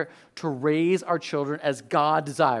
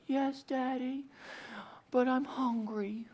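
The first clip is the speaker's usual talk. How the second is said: Titus; 7 semitones higher, 12 dB quieter, slower than usual. Retold or imitated. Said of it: "for us, it's Titus".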